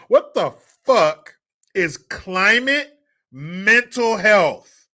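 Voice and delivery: slow, loud, high disbelieving demand; drawn out, incredulous rant; disgusted outburst. Real, not acted. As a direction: spit out "What the fuck is climate mental health" in disgust. Outraged repeat of phrase.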